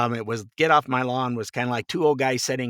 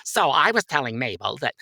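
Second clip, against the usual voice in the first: put-on old hen gossip. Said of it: "like two old hens".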